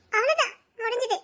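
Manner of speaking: choked laugh through tears; crying laugh. Acted. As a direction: laugh bitterly while crying. Wife breaks down over lost dream. (கண்ணீருடன் கசந்த சிரிப்பு)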